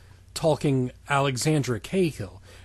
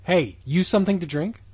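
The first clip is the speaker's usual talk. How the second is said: mock repeat. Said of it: "repeating the line mockingly".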